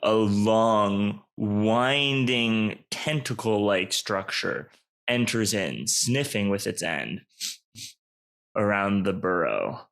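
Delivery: slow, measured narrator voice; ominous story narration. A narrator's reading. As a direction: narrate the creeping menace, pausing between phrases.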